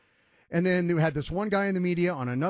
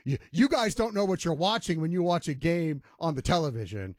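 mocking snooty analysts; 3 semitones lower than usual. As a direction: send up pompous pundits talking down. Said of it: "peacocking around going".

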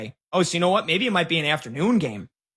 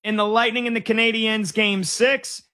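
high, slow play-by-play call; excited call; 5 semitones higher, slower than usual. Real, not acted. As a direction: call the goal like a broadcaster. Calls the overtime winner.

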